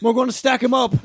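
put-on lightly done Australian bloke accent, mate; a hint of a laid-back Australian neighbour; put-on Aussie accent. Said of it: "What do you think that accent is?".

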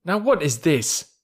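high, slow puzzled question; bewildered. A narrator's reading. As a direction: ask it in bewilderment. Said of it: "bewildered as the stones flew".

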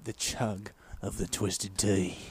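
slow, low, soft British sign-off; hushed British commentary; British sports commentator. Acted. Commentator naming the event, in a hushed British voice. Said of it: "I'll commentate the whole bit".

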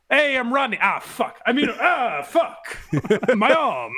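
hammed-up Rodney that falls apart into laughs; lost Rodney impression. Mocking a comic who drops his Rodney impression, laughing. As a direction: start as Rodney, break and laugh. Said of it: "There's a little bit of that where he's like".

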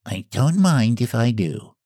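even, offhand reply; indifferent cat. A narrator's reading. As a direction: shrug it off coolly. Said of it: "tone of even indifference".

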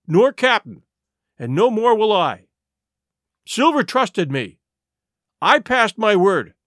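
put-on a boy keeping his word, earnest; boy refusing firmly.

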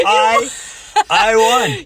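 high, delighted squeal; gleeful squeal. Real, not acted. To his daughter, high squeal of triumph. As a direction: crow the win in a high squeal.

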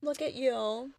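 soft, lovestruck mock swoon. Honeysuckle watching Lube send Spencer running, mock swooning. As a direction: coo it admiringly, with a long dreamy pause. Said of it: "Honeysuckle swoons, and she's like".

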